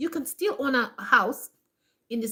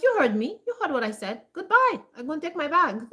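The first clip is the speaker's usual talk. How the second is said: sassy comeback, higher on the goodbye; retold defiant exit; 4 semitones higher than usual. Employee walking out on the shocked boss, defiant. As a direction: act out telling the boss off and walking out.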